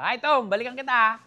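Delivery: loud friendly shout across the yard; calling out. Real, not acted. Calling out to Tom working on the house, loud and cheerful. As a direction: call out to be heard far off. Greeting worker from a distance.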